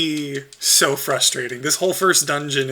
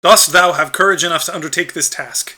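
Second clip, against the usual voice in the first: loud, solemn ancient tree; booming old tree voice; 4 dB louder than usual. Acted. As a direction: proclaim it like a wise old guardian. Deku Tree asks DJ.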